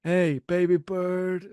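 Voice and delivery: slow, sneering gangster drawl; Tony Montana impression. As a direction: lay on the creepy charm, slowly. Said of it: "He sounds like Tony Montana".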